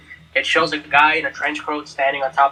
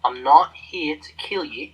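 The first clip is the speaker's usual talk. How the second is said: put-on Australian accent. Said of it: "I'm making him Australian".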